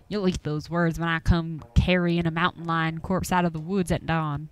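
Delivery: lightly voiced old country hunter, grumbling; a hint of a gruff Appalachian old-timer warning folks off. Game master voicing Duke, shooing the players from his woods, gruffly.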